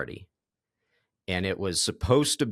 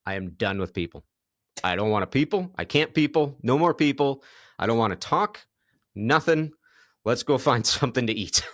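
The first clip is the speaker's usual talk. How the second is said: exasperated rant; 2 semitones higher than usual. Retold or imitated. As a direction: imitate a worn-out friend who's sick of people. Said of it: "you're like".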